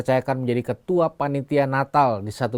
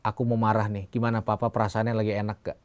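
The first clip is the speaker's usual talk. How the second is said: put-on politely angry child; 2 semitones lower, 4 dB quieter than usual. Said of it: "Dia bilang".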